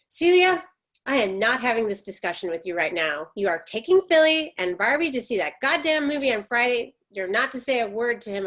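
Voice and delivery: mother ends the argument; stern scolding. Acted. Mother silencing her daughter, stern and firm. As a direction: cut her off, then firm commands.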